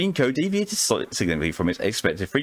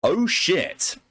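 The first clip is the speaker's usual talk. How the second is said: surprised swear; 9 semitones higher than usual. Real, not acted. Reacting to the story's twist.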